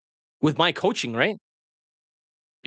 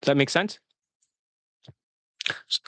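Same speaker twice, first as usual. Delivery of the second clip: ordinary delivery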